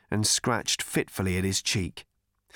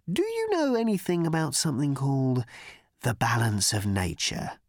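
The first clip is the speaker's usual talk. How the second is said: a hint of a timid young man, a bit higher; lightly voiced nervous cricketer; 4 semitones higher than usual. A narrator's reading. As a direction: ask it hesitantly, unsure of himself.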